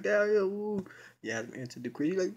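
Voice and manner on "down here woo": high, loud sing-song call. Retold or imitated. Margot calling Yasmin down, high loud sing-song call. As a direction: sing it out to pull her downstairs.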